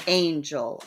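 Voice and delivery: "Angel" with the front part stressed; first-syllable stress. Shown as a demonstration. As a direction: stress the first half of "Angel", let the end drop. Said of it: "the front part of that is stress".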